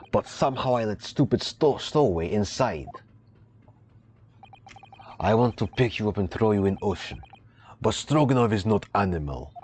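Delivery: a hint of a gruff Russian accent; proud sailor, lightly put-on Russian accent; lightly voiced Russian sailor.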